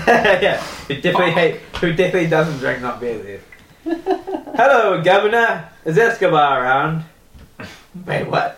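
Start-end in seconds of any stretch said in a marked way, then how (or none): 3.8-7.0 friendly New Zealand guy. Acted. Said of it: "friendly New Zealand guy with a beard".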